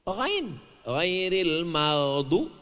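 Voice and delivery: "Ghain" and "maghdu" with throaty gh; Ghain sound. Shown as a demonstration. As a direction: slowly chant "ghairil maghdu", dwelling on the gh. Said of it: "ada huruf ghain". (melantunkan "ghairil maghdu" pelan dengan huruf Ghain)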